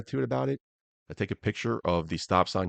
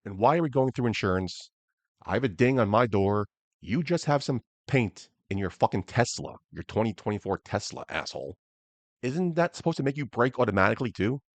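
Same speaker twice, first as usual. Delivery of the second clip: mildly angry retold rant, higher at the start; retold pissed off; 3 semitones higher than usual. Driver challenging the man who hit him, retold with mild anger. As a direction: argue it with a touch of indignation. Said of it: "now I'm fucking pissed".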